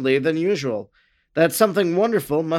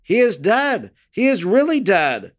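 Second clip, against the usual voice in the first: higher-pitched, restrained cry from a crowd; calling out; 4 semitones higher than usual. A narrator's reading. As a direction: call it out as a startled onlooker, mildly raised. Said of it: "many from among the crowd called out".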